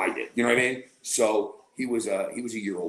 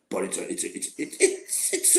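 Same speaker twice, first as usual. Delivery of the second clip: mock embarrassed stalling in a whisper; breathy awkward stammer; hesitant half-whisper; 3 semitones lower than usual. Friend hesitating before admitting.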